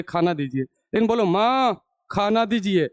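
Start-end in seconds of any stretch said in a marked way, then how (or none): 0.0-0.6 low, gentle request to mother; said lovingly. Shown as a demonstration. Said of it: "प्यार से बोले". 1.2-2.9 mock rude order to mother; brusque demonstration of asking the wrong way; disrespectful demand. Shown as a demonstration. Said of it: "उधर से झाड़ू लेके दौड़ा लाएगी".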